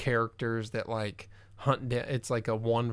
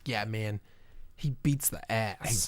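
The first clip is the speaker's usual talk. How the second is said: laid-back clueless bro; clueless dude voice. Pretend. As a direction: say it like you have no idea what it means. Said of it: "phrase of someone who doesn't know".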